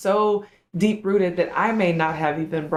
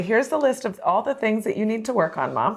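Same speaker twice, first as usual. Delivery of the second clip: a hint of a child, higher pitch; lightly voiced child; 5 semitones higher than usual. Child laying out Mom's homework, lightly voiced, higher. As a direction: lightly play the child informing a parent. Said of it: "our children are our mirror".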